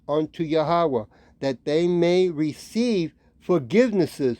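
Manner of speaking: slow, deliberate Bible reading; scripture reading. Acted. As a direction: read the verse slowly, phrase by phrase. Reads scripture aloud.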